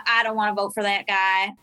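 imitated male voice. Voter turning down a phone banker, mock male voice. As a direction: drop low, imitating a man on the phone. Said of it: "like, a male accent".

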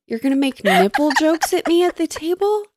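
high, indignant disbelief building; rising incredulous rant at him; mock outrage.

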